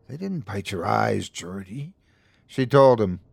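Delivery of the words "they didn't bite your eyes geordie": soft, gentle correction; kind, calm. A narrator's reading. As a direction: calmly soothe a frightened friend. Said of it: "answer kindly and calmly".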